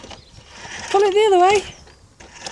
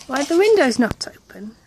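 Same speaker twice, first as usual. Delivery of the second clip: whispering; 2 semitones higher than usual. Real, not acted. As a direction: whisper the question back. Parent whispers answer to toddler.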